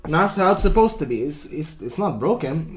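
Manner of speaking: mock customer complaint. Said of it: "So it's like".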